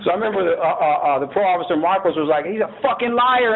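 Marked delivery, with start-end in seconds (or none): 2.5-3.5 higher-pitched retold outburst; retold angry accusation. Parole officer accusing the prisoner of lying, retold indignantly.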